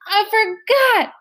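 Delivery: high, slow moan; long anguished wail, slow. A narrator's reading. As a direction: moan it out in despair. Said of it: "it was moaning as it swayed".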